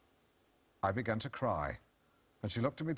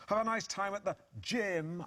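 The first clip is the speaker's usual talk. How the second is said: sarcastic air quotes; 10 semitones higher than usual. Retold or imitated. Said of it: "making inverted commas around the word gym".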